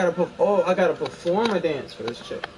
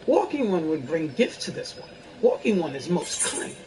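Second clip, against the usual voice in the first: fairy voice. Acted. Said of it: "my best fairy voice".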